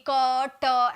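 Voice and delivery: CAT broken into "क" and "ट", each drawn out; stretched-out wrong demo of "क, ट" in two syllables; split into two beats. Shown as a demonstration. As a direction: say "क, ट" as two separate sounds. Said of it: "ऐसे थोड़ी बोल रहा है".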